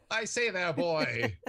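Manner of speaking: lightly voiced upper-class Victorian; posh British gent. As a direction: order the boy about pompously. Posh Victorian gent ordering boy.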